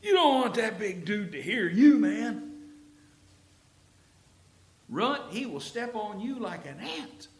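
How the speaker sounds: high, loud hushed-warning soldier voice; mock nervous soldier. Frightened soldiers warning little David about Goliath, urgent mock warning. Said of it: "can't you see everybody else going".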